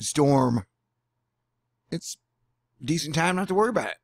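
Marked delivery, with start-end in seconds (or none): 1.9-4.0 higher, fast, mock carefree; sarcastic. Telling storm viewers not to worry, sarcastically. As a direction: toss it off with a sarcastic lilt. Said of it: "Oh, I'm being sarcastic".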